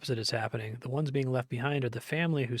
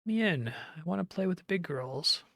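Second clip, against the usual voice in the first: put-on high childish pleading; a small child begging to join in; lightly voiced little girl begging; 6 semitones higher than usual. Delirious Henri as small child.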